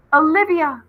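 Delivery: loud, high call across the corn; a longed-for voice calling from the corn. A narrator's reading. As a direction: call her name from far off. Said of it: "it called".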